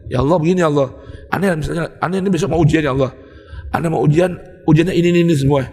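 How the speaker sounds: understated conversational prayer; intimate prayer. Retold or imitated. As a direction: talk to God like a friend across the table. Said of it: "Begitu ngomongnya".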